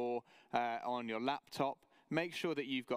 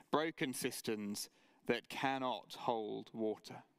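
scripture reading. Acted. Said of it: "Take a look at verse thirteen".

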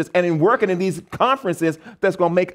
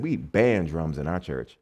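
stern official; 13 semitones lower, 6 dB quieter, slower than usual. Retold or imitated. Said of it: "president of the West Nigeria Conference said".

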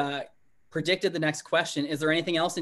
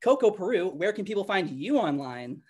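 car salesman; 3 semitones higher than usual. Pretend. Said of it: "What was that?".

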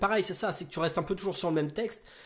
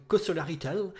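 English accent. Shown as a demonstration. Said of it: "Catastrophique, mon, mon accent anglais".

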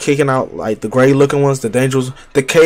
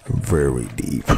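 much lower, slow, put-on deep "Very deep"; mock deep voice; 12 semitones lower, 8 dB quieter, slower than usual. Shown as a demonstration. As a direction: drop the voice way down and drag it. Playing on the word deep.

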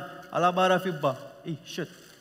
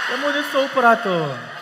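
stern reprimand; 6 semitones higher, 7 dB louder, slower than usual. Acted. Husband scolds wife.

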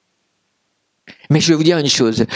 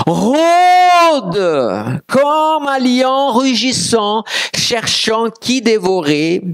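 dramatic slow preaching, pitched way up; scripture proclamation; 6 semitones higher, much slower than usual. Acted. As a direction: stretch the first word like a roar, then declaim.

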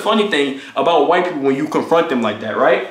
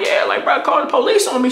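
mock shout; 8 semitones higher than usual. Daring the roommate to call police.

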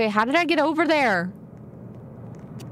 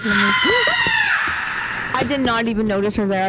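startled gasp; slower than usual. Real, not acted. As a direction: caught off guard, blurting it out. Startled by unseen character nearby.

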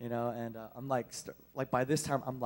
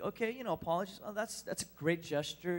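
higher-pitched imitation of a bemused man; amused man on phone; 4 semitones higher than usual. Man answers an unexpected apology, mildly amused imitation. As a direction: lightly act his easy-going, higher reply. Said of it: "he's kinda laughing".

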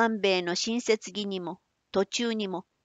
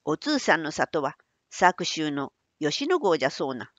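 put-on old man voice; 5 semitones lower than usual. Manbei asks Otsu.

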